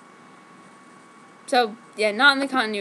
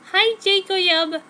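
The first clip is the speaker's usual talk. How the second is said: seductively; 7 semitones higher, 5 dB louder, slower than usual. Acted. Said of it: "I said seductively in an erotic manner".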